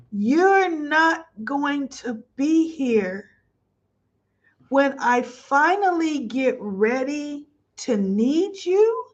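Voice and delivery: slow, choked-up retelling; slow down as emotion catches; teary-eyed. Real, not acted. Host retelling the scene that moved her, teary and slow. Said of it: "I am getting teary-eyed".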